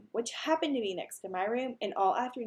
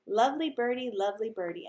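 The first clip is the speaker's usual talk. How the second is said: bird voice. Acted. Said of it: "Uncle Feather said".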